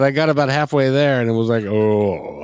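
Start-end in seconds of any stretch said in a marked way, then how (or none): 1.6-2.4 half-way attempt at a low singing note; low "oh" in mock bass; mimicked low voice. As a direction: imitate a very low singer, falling short. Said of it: "I tried to mimic that".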